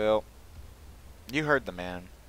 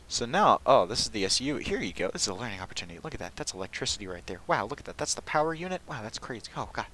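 mock tour guide; 3 semitones higher, 4 dB louder than usual. Mock guided tour of game base.

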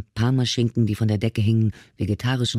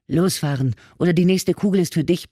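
higher, louder threatening yell at the driver; roaring threat; 7 semitones higher, 3 dB louder than usual. Acted. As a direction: bark the order with the gun raised. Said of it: "brüllte Madeline".

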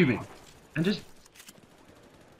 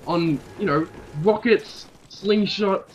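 mock-serious rant; 4 semitones higher than usual. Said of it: "I couldn't keep a straight face".

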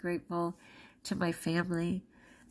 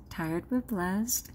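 slow tender repeat; much slower than usual. Real, not acted. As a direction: linger gently on "tired but blessed".

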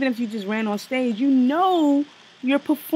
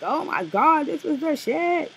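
mocking gush; 5 semitones higher than usual. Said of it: "you making it sound like".

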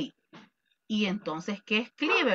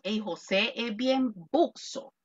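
slang example; 4 dB quieter, slower than usual. Shown as a demonstration. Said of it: "yo te quiero decir a vos".

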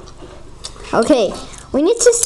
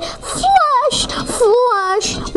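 high-pitched toilet flush noise; pretend flush; 8 semitones higher than usual. Player pretending to flush the game toilet, high mock flush. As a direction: call out a drawn flush.

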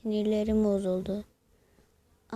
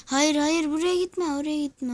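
higher, alarmed burst of protest; urgent warning; 5 semitones higher than usual. Real, not acted. Gamer warning teammates not to go there, urgent warning. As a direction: call them off in a hurry. Warns players away in game.

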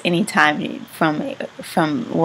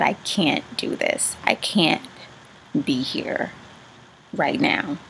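softer, half-whispered, close to crying; a broken, breathy plea; tearful hush; 4 semitones lower, 5 dB quieter than usual. Real, not acted. Retelling desperate reply, near tears.

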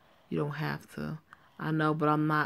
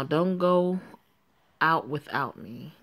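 a touch louder, insistent Don't go out; firm warning; 3 dB louder, slower than usual. Acted. Friend warning Joanne before going to sleep, firm and a bit louder. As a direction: warn her so she listens.

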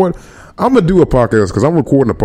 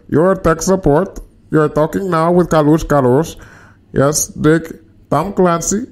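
higher-pitched Indian tech-support voice; Indian accent; 6 semitones higher, slower than usual. Shown as a demonstration. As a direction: put on a high Indian call-centre accent. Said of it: "Indian accent's hard".

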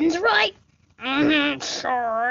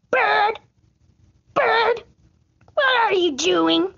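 calling to a bird; 6 semitones higher than usual. Pretend. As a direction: sing out to the bird above.

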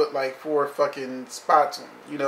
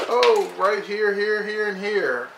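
mock pointing; 7 semitones higher, slower than usual. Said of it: "Even Duchess is like".

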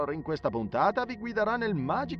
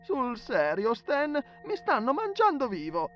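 high, loud whiny protest; high-pitched griping; exasperated complaint; 13 semitones higher, 5 dB louder than usual. Acted. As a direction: complain loudly to your friend, voice pitched way up. Friend complains of being bitten alive.

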